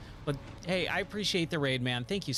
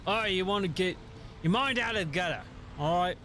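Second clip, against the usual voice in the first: higher, rakish pirate captain voice; Jack Sparrow; 4 semitones higher than usual. Acted. Streamer teasing chat about dirty minds, Jack Sparrow voice. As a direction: scold playfully as a movie pirate. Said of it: "when you do a Jack Sparrow impression".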